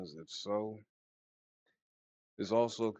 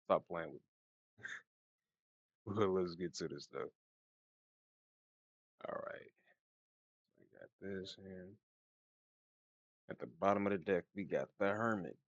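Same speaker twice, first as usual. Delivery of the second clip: talking with a retainer in; slight lisp from a mouthpiece; wearing a retainer. Real, not acted. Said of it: "if I sound funny during this read, it's because I've been wearing this mouthpiece".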